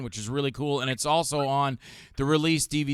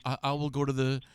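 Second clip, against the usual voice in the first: polite gentleman; 5 dB quieter than usual. Retold or imitated. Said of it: "Rod is a perfect gentleman".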